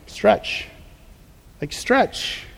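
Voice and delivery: a whispered stretch, soft and intimate. Real, not acted. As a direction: breathe the word stretch to them. Preacher whispers key word.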